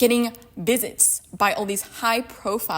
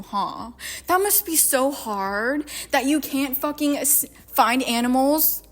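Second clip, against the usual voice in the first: sarcastic. Real, not acted. Sarcastic fake sympathy to Mal.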